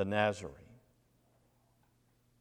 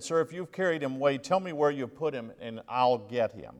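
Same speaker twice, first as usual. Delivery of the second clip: higher, quick, pleading Mary; a hint of a desperate woman begging the gardener; 5 semitones higher than usual.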